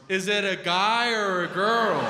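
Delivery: lilting, sung-out dumb question; singsong question. Retold or imitated. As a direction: sing it out innocently.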